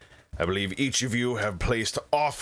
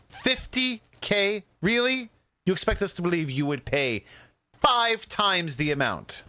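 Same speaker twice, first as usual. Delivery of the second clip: incredulous; 11 semitones higher than usual. Acted. Zanita incredulous at bid.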